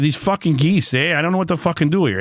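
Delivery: a forced Canadian voice, half-hearted; Canadian accent. Retold or imitated. Host imitating Canadian complaining about geese, half-hearted Canadian accent. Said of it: "I can't even do it right now 'cause I'm thinking too hard".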